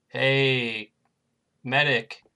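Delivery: light Norwegian lilt on Hey, medic; a hint of Norwegian; Norwegian accent. Shown as a demonstration. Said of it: "I could do, like, a Norwegian accent".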